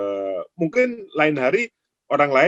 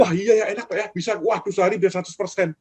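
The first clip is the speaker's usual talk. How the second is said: naive newcomer; 5 semitones higher, faster than usual. Retold or imitated. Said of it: "orang-orang yang baru".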